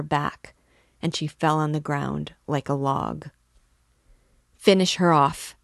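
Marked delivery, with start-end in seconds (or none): 4.6-5.6 furious shout. A narrator's reading. Mikolka screaming to finish the mare, furious. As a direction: yell it in a drunken rage. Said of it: "shouted Mikolka".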